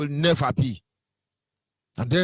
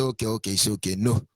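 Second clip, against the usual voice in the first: mock officials giving in; 8 semitones lower, 4 dB quieter than usual. Voicing officials backing down.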